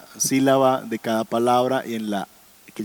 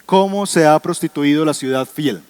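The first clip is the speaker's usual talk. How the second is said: read verse aloud; 2 semitones higher, 5 dB louder than usual. Shown as a demonstration. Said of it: "Ese es el versito que está ahí".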